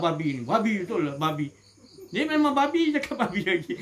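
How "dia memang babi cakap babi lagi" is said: mock furious shout at the pig; angry outburst. Preacher acting out a man cursing a pig, angry shout. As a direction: bark it out in a burst of anger.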